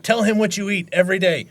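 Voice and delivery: high, loud, laughing through it; laughing retelling. Retold or imitated. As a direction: crack up while quoting.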